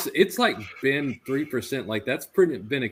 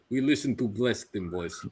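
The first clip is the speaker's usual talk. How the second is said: hint of a Russian accent; mock Russian accent. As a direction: play a Russian making demands, barely accented. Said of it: "best Russian accent".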